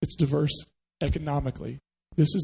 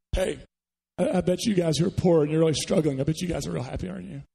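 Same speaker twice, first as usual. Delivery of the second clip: mock cruel; faster than usual. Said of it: "It's a little cruel, isn't it".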